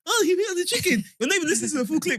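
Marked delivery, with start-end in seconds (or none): 0.1-1.0 mocking commenter. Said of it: "you just heard".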